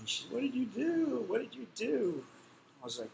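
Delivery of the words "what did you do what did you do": high, tearful pleading; imitating his crying wife. Wife begging her jailed husband, high and tearful. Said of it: "She started crying".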